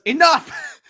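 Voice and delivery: high, loud booming "Enough!"; commanding shout. Retold or imitated. Silver stops every hedgehog at once with a shouted "Enough!". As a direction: bellow "Enough!" to freeze the room.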